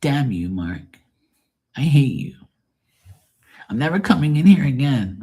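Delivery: lightly hammed-up high huffy voice; mock indignation. Imitating a viewer quitting the stream, mock indignation. Mocks upset viewer storming out.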